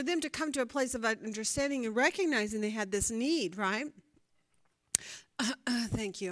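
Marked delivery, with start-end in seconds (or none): 5.4-6.3 coughing out words while choking; strained, choking on a drink. Real, not acted. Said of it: "I'm choking".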